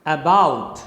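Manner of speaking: about with a weak first syllable and a strong BOUT; stress on second syllable. Shown as a demonstration. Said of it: "the first syllable is unstressed".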